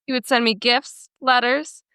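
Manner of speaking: measured story narration in even phrases; reading aloud. Acted. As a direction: read someone's written post to listeners. Reads a Reddit post aloud.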